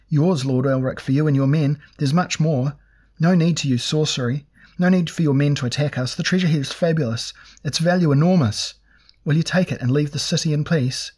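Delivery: high, pleading whine; cringing merchant whines treasure; whining. A narrator's reading. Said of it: "he whined".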